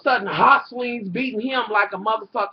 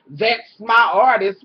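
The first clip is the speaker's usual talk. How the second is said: slow, loud, puffed-up mock; mocking boast; 6 dB louder, slower than usual. Vlogger mocking Stevie bragging about his artist, a slow loud boast.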